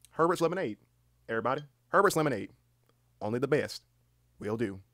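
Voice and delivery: folksy Southern pitchman delivering a slogan; weird southern voice. Pretend. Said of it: "saying it in this weird southern voice".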